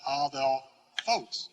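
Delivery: ADELPHOS as ah-thel-FOHS, slow, last syllable stressed; stress on final syllable. Shown as a demonstration. Teacher giving the proper accent, adelphos slowly stressed on the end. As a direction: draw out "adelphos" towards a stressed "phos". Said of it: "Accent on the proper syllable".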